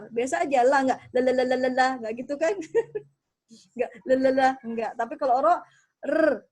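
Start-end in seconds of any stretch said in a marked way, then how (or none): 1.1-1.9 "La" plain, no vibration; steady L in "La"; untrilled L. Shown as a demonstration. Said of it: "ndak bergetar". 4.1-4.5 "La" plain, no vibration; steady L in "La"; untrilled L. Shown as a demonstration. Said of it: "ndak bergetar".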